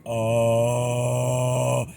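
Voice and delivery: rattling voice cracking into air; vibrating false-chord distortion. Shown as a demonstration. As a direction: sound like talking through a fan. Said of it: "So you're going from".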